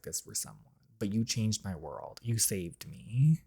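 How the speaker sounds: slow unvoiced whisper. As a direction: breathe the words, slow and close. Tender confession whispered.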